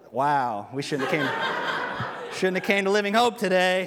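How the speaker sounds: laughing through the words; laughing listener. Retold or imitated. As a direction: joke as the doubtful listener, laughing. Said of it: "some of y'all are like".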